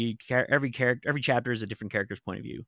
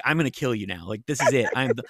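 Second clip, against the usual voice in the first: mock murderous rage; 3 semitones higher, 6 dB louder than usual. Retells her murderous thoughts.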